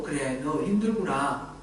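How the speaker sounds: slow, soft consoling words; gentle comfort. Pretend. God comforting tired Jeremiah, slow and gentle. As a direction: say it like a kind father soothing. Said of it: "예레미야를 격려해주고 위로해주고".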